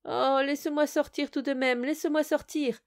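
high, pleading whine from inside a bottle; plaintive. Acted. Spirit trapped in a bottle begs the student, plaintive. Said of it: "d'une voix toute plaintive".

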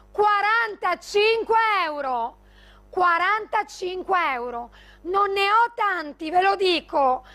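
infomercial. Acted. Live sales pitch, prices shouted.

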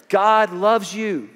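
slow, loud, lifted, every word leaned on; emphatic declaration. Acted. Pastor declaring to the inmates, slow and loud. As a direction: hammer home God loves you. Preacher's climax line.

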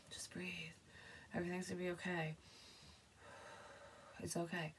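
soft, breathy calming whisper; whispered calming for a panicked person; soothing whisper. Shown as a demonstration. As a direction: hush someone gently down. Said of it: "calm myself down, or you're calming someone down".

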